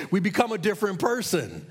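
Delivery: ordinary talk, nothing marked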